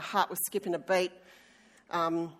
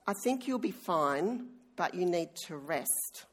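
softer, hushed and calm; quiet nurse voice; 6 dB quieter than usual. Retold or imitated. Nurse quietly tells her patient to rest, soft and calm. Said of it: "she very quietly just turned to me and said".

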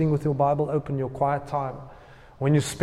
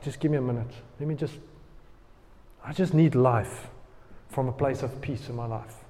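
much softer, calm and unhurried; peaceful hush; 5 semitones lower, 9 dB quieter than usual. Retold or imitated. Pastor showing a calm prayer from a place of peace, hushed and soft. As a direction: settle into a quiet, peaceful voice.

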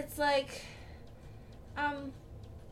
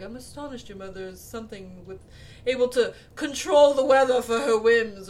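astonished father; 3 dB louder than usual. Retold or imitated. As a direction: imitate a dry remark from a father. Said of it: "the father is like".

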